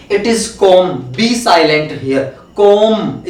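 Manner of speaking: calm with the l silent, "kaam"; correct pronunciation. Shown as a demonstration. Teacher modelling calm for students. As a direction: say calm without the l. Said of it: "बी का sound नहीं होता है".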